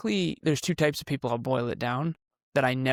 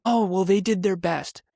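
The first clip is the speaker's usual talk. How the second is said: mocking excuse; 5 semitones higher than usual.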